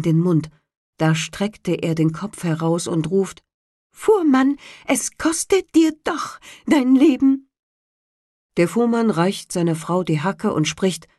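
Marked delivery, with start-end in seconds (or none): 3.9-7.5 high, loud bird voice threatening; menacing sparrow. A narrator's reading. Sparrow threatening the carter's life, high and loud. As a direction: warn him like a vengeful bird.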